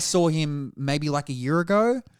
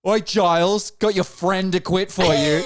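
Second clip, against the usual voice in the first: teasing call-out; 4 semitones higher, 5 dB louder than usual. Retold or imitated. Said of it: "I remember a guy being like".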